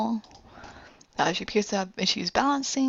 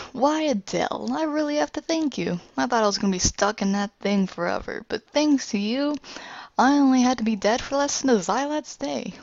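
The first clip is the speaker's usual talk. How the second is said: gloating villain; 3 semitones higher than usual. Retold or imitated. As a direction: savour every word like a smug villain. Villain gloats after revival.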